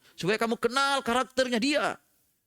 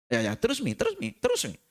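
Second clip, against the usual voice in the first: mock urging child; 5 semitones lower than usual.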